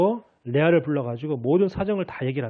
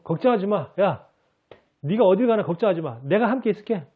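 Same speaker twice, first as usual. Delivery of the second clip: a hint of a confident Superman, slightly higher; mock Superman promise; 3 semitones higher than usual. Preacher imitating Superman to the congregation, lightly heroic. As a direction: play a hero promising to stand by you. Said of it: "슈퍼맨이 나와 함께 있겠다".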